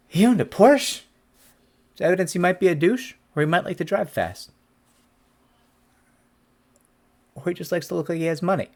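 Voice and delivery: imitating a scoffing jury; mock-shocked juror. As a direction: play a juror unimpressed by the Porsche. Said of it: "get a jury to go".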